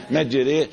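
"مجري" with the final a tilted to e; demonstrated imala. Shown as a demonstration. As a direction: end "مجري" on an open e, not i. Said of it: "إمالة".

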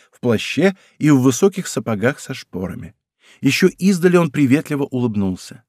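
usual speaking voice

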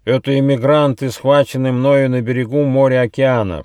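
lightly voiced fawning servant; servile report. A narrator's reading. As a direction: report with a bow to the queen. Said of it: "поклонившись, сообщил Ехидна".

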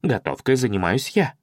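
usual speaking voice

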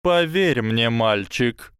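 high, slow serpent voice; a hissing snake, slow and sly. Acted. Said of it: "прошипела змея".

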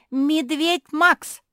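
slow, loud, high yell of a name; a piercing cry of alarm. A narrator's reading. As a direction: bellow it out in shock. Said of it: "завопила Жози".

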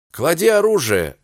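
yelled order. A narrator's reading. Sergeant stepping between them, yelled command. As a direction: bellow the order to drop it. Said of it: "заорал урядник".

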